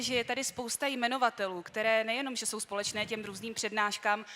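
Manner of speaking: normal talking voice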